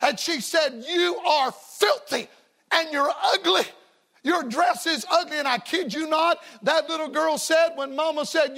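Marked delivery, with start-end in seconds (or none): 0.9-5.4 angry mother. Retold or imitated. Preacher retells a mother scolding her muddy daughter, mildly angry. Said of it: "Her mother was angry".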